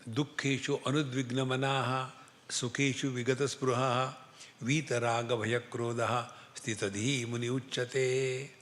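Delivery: measured chanting of a Sanskrit verse; quoting Lord Krishna with reverence; reciting the Gita verse. Retold or imitated. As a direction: recite it like scripture. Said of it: "Bhagavan says".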